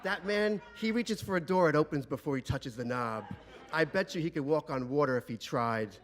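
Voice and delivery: emphatic grandmother. Retold or imitated. Grandmother ranting about lucky Frankie, emphatic. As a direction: voice a grandmother marvelling at his luck.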